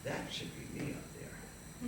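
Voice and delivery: soft, slow, dreamy realization; hushed wonder. Acted. Young man watching the stage, hushed longing. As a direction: say it softly, as a secret longing. Awed private thought in theater.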